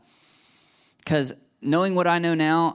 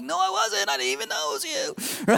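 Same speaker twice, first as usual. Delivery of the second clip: defensive denial; 4 dB quieter than usual. Retold or imitated. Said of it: "and I'm like".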